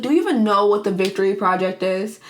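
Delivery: lightly acted plea, YOU briefly lifted; pleading challenge. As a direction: imitate a mild, imploring question. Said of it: "trying to just plead to Jack".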